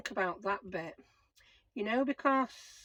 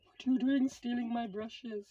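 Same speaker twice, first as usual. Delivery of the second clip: louder, higher put-on voice of an annoyed Becca; mock-angry Becca; 3 semitones higher, 6 dB louder than usual. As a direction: tell her off for pinching the brushes. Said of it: "or she'll go mad at me".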